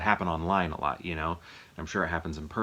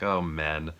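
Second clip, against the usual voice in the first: mock weary groan at them; eye-rolling exasperation; much slower than usual. Imitating her reaction to men, eye-rolling exasperation. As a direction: roll your eyes as you say it. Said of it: "like, rolling her eyes".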